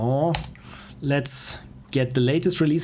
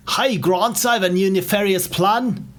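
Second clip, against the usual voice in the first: lightly put-on villain voice, pitched higher; higher-pitched supervillain announcing an evil plan; Dilly; 4 semitones higher than usual. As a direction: play a cartoon villain, a little higher. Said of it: "This is my voice for Dilly".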